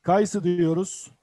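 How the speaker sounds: Kayısı diyoruz said slowly; slow it down for students; slow teaching voice. Shown as a demonstration. Teacher naming the fruit slowly for the class. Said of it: "teacher slow model".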